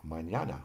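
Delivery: mañana with the ñ said as NY; tilde N. Shown as a demonstration. Teacher showing N with a tilde, NY sound in mañana. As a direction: glide from N into Y in mañana. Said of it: "N with a tilde is pronounced differently".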